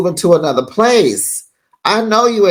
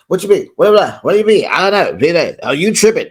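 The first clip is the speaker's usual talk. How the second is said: mock going off; faster than usual. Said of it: "Miss Thang goes off".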